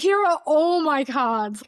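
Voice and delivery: high, slow tearful cry; giving in through tears; answering husband while crying, high and slow; tearful surrender. Retold or imitated.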